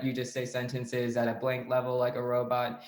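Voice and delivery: blank, level robot-like delivery; robotic monotone. Shown as a demonstration. Coach showing the mistake of reading off a case, robotic monotone. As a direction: keep every word on one note, no inflection. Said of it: "kinda like that, except for less stressed".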